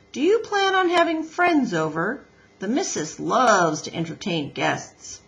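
chatty builder warming to his customer; Mister Beaver. Acted.

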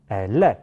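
"elle" slowly run into the next vowel, è-lè; linked syllables. Shown as a demonstration. Teacher shows the joined result, slow linked è-lè. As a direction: sound the l of "elle" as the start of a following è. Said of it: "跟后面的元音爱连在一起".

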